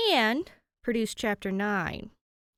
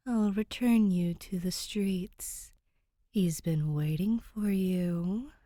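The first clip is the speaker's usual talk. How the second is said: 1 knowing ghostly whisper; slower than usual. Acted. Ghost sends Danny back, amused.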